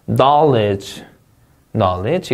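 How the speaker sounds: "Knowledge" with a long, strong KNOW; first-syllable stress. Shown as a demonstration. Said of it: "이름적 강세".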